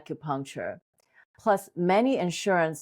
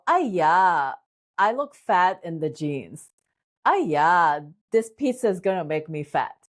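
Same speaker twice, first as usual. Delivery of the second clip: put-on Asian accent. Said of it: "Asian accent".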